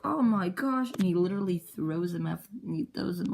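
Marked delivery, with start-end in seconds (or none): 0.0-0.9 high, loud acted gasp of disbelief; mock shocked exclamation. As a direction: exclaim it high, playing stunned. Acted character reaction in retold fight.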